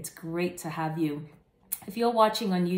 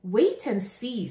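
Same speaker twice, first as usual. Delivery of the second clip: knowing snake; 4 semitones higher, 4 dB louder than usual. Acted. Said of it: "said Snake".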